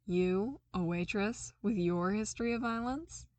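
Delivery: incredulous mock; snorting disbelief. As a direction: scoff at the idea. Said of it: "Darcy snorted".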